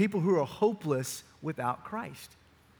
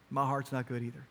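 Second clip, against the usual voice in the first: put-on gentle confession to child; 4 semitones lower, 6 dB quieter than usual. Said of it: "and I said".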